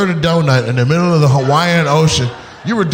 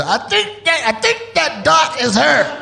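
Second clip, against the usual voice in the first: squinting-out-to-sea voice; 10 semitones higher than usual. Retold or imitated. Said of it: "That shit turned into".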